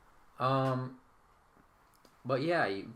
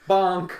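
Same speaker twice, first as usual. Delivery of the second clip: loud, higher comic impact noise; imitated bonk; 6 semitones higher, 11 dB louder than usual. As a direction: punch out a cartoon bonk. Game master voices the weapon bouncing.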